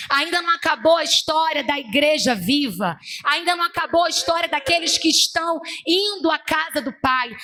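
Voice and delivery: emphatic, rolling sermon cadence; preacher building a litany of promises; prophetic preaching. Retold or imitated. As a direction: proclaim God's word, driving each repetition home. Preaches God's message.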